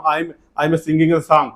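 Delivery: slow, careful English, word by word; slow model sentence. Shown as a demonstration. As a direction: spell it out slowly for the class. (धीरे-धीरे साफ़ बोलकर)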